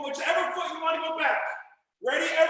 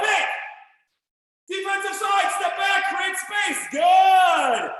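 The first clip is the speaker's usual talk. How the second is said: loud called commands; 4 semitones higher, 5 dB louder, much slower than usual. Real, not acted. Coach calling out drill moves.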